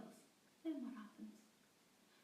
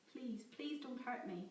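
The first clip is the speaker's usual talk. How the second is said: panic; 3 semitones higher, 3 dB louder, slower than usual. Acted. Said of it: "the panic in her voice".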